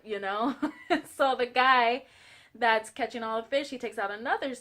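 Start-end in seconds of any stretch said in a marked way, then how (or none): 0.6-1.1 giggle. Real, not acted. Laughs at own joke.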